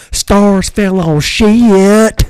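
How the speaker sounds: loud, high, hugely drawn-out Southern taunt; mocking Southern drawl. California teammate teasing him after scoring, mock Southern drawl. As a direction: stretch every word in a teasing Southern drawl. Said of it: "such a bad Southern accent or drawl".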